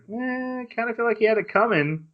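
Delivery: high, offhand and quick; dismissive shrug. Retold or imitated. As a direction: brush it off like everyone agrees. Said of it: "everyone else is like".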